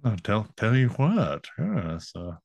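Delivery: a hint of Jeff Goldblum's halting stammer; Boomhauer Goldblum mix. Crossing Boomhauer with Jeff Goldblum, halting and light. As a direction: stutter it, Goldblum-style. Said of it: "cross Boomhauer with Jeff Goldblum".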